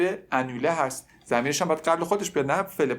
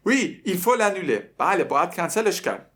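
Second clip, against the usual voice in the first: put-on dim-witted boy; 5 semitones higher, 3 dB louder than usual. Teacher mimics the dim boy answering the girl. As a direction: play the clueless boy agreeing dumbly. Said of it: "پسر یه خنگ".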